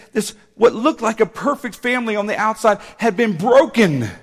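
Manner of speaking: loud punches on key words; impassioned preaching. Real, not acted. Preaches the story at force.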